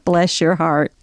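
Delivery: low, lethal sweetness in bless your heart; deadly sweet. Shown as a demonstration. Southern lady finishing off a rival, deadly sweet. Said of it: "before someone points a gun".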